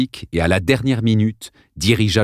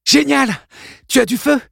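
much higher, louder mock cheer; sarcastic girl; 4 dB louder than usual. Cordy mocks Kevin's plan, high and loud. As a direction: throw the praise back with sarcasm.

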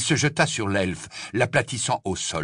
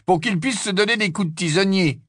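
sneering; 11 semitones higher, 5 dB louder than usual. Acted. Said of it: "ricana Harry".

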